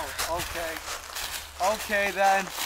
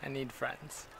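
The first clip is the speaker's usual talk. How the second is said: lonely ghost voice. Pretend. Playing lonely creepy figure.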